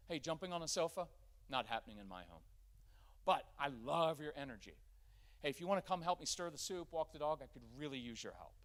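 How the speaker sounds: calm, firm statement of fact; in control. Shown as a demonstration. Parent telling the son off the sofa, calm and firm. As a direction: state it plainly, no drama. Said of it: "it sounds like this".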